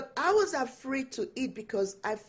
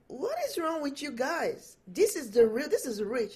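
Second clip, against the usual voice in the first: higher, half-joking exasperated scolding; mock mad mom; 6 semitones higher than usual. Mom to kids who reject the real spaghetti, mock exasperation. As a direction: playfully scold the kids for not liking it. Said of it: "I was mad".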